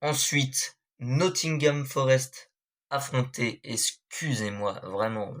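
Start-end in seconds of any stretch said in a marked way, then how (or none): 1.0-2.5 slow, careful attempt at Nottingham Forest; approximate English pronunciation. Real, not acted. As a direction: stretch out Nottingham Forest with uncertain French-accented pronunciation. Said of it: "je suis vraiment désolé de la prononciation". (Nottingham Forest prononcé lentement, à la française)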